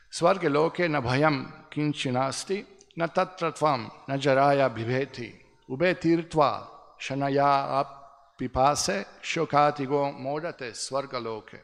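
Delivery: measured scripture recitation; Sanskrit verse recitation. Real, not acted. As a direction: recite the shloka phrase by phrase.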